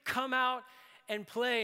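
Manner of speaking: a dad bellowing across the frozen lake, loud and high; retold bellow. Dad calling his kids from across the lake, bellowing. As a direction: call it out big from the far bank. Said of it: "he bellowed out and said".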